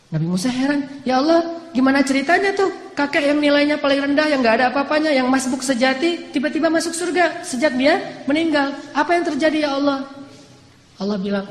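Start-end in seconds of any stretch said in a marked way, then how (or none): 1.0-10.1 puzzled pleading. Acted. Musa asks God in disbelief, raised amazed voice. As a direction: press God for an answer, amazed.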